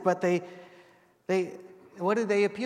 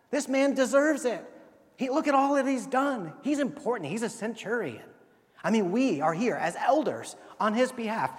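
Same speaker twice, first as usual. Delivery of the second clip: high, insistent pleading that fades at the end; earnest pleading elders; 4 semitones higher than usual. Retold or imitated. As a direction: press the case for him, then soften. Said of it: "they pleaded earnestly with him".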